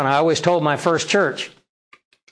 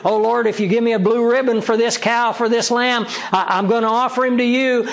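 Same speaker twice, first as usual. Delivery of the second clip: higher, eager voice of a proud farmer making a vow; eager farmer's vow; 5 semitones higher than usual. Retold or imitated. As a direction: lightly play the boastful farmer promising his prize to God. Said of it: "He says".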